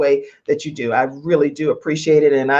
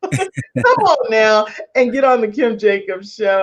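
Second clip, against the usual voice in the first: Madea voice; 4 semitones higher than usual. Pretend. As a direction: call out like Madea. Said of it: "like in my Madea voice".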